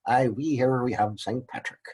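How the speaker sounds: a light, hammed-up Irish accent; teacher tries a playful mock Irish accent. Lecturer jokes for Saint Patrick's Day in a bad Irish accent. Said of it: "if I could do an Irish accent".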